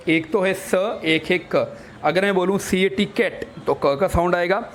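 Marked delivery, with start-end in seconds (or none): 0.5-1.0 स as a short "suh"; letter sound. Shown as a demonstration. Teacher showing C's first sound, स as "suh". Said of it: "सी के दो sound है". 1.6-1.8 क as a short "kuh"; letter sound. Shown as a demonstration. Teacher showing C's second sound, क as "kuh". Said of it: "सी के दो sound है".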